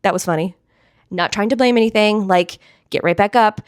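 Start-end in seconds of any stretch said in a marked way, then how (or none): 0.0-0.5 playful fake laugh at a stumble; mock giggle. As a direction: laugh it off lightly. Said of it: "giggle and be like".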